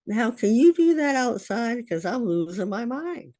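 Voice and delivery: high, strained asking; anxious plea. Retold or imitated. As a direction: beg him, pitch climbing high. Frightened mother asks son outside.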